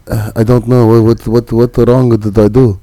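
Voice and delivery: put-on light Arabic accent, apologetic to cop; nervous driver with a hint of an Arabic accent. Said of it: "if I threw my accent out there".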